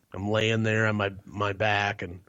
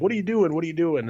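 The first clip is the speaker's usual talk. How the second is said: raised, louder cop demanding answers; retold cop calling him out, pitched up; cop's sharp challenge; 7 semitones higher, 5 dB louder, faster than usual. Cop catches him in the act.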